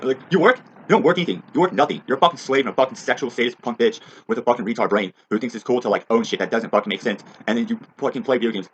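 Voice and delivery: mock their work with loud scorn; scornful rant. Real, not acted. Ranter yells at the kids about work, loud.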